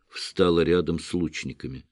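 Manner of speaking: ordinary delivery, nothing marked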